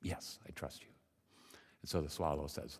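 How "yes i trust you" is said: hushed, halting self-questioning; hesitant thinking. Acted. Frog wonders whether to trust the bird, hesitant and quiet. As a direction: think it through softly, near a whisper. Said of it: "Frankie thinks".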